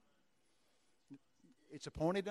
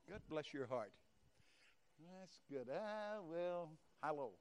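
soft blessing; 8 dB quieter, slower than usual. Real, not acted. Preacher blessing Trish up close, quietly. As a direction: hush down as you bless her. Praying softly over woman Trish.

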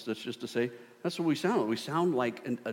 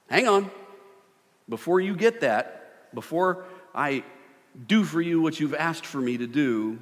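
God saying wait; 5 semitones higher, 4 dB louder than usual. Acted. Voicing God telling you wait.

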